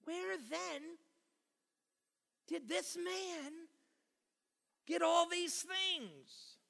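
slow, high question leaning on "this"; measured, pointed emphasis on "this"; stress on THIS. Shown as a demonstration. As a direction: draw out the question and press "this". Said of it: "I wanted to emphasize the word this".

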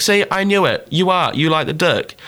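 high-pitched mock triumph; told-you-so. Girl answering the friend's joking reply, told-you-so. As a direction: imitate someone sure they were right.

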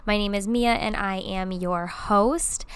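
stuffy blocked nose from covid; congested. Real, not acted. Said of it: "as you can hear in my voice, I'm a little congested".

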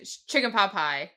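laughing through the quote; can barely say it for laughing. Real, not acted. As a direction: giggle out the words. Quoting while laughing.

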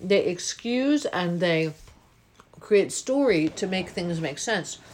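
talking through toast; mouth full. Real, not acted. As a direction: chew and speak at once. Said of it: "now I'm gonna talk with toast in my mouth".

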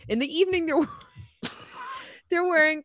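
high, rising reveal; dramatic climax. Acted. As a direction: build to the punchline. Climax of outfit list.

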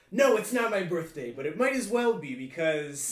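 Mae West by way of Alaska; film noir villain. Acted. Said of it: "sample of your film noir script".

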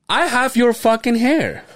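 high, slow exasperated complaint; acted dismay. Son reacting to dad's hair, high slow mock dismay.

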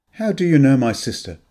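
cool, suspicious question to a stranger; a guarded sister sizing him up; unfriendly. Acted. Sister questions a stranger at the wake, unfriendly. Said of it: "Her voice was unfriendly".

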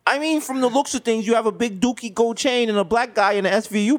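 suspicious Jewish neighbor, hesitant and hedging; mock-concerned Jewish accent, circling the accusation. Neighbor hints that the gold chain looks suspicious, Jewish accent. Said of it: "doing a Jewish accent".

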